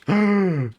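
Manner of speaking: sudden startled high gasp; sharp gasp. Real, not acted. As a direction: gasp in panic. Oops, mini panic attack.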